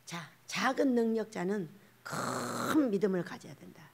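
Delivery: normal talking voice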